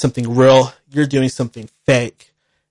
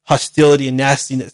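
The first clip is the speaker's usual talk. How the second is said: mock grand sign-off; slower than usual. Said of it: "No, I'm just kidding".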